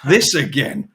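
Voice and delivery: slow, dragging dread; weary groan. Retold or imitated. Waking up to another day, slow mock weary groan. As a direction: sigh out the morning misery. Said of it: "they just wake up and go".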